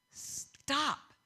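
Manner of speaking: "Stop." high, loud and breathy; urgent stop. Shown as a demonstration. Preacher voicing God's command to the congregation, high and loud. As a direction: make "Stop." ring out as a command. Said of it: "God tells us when to stop".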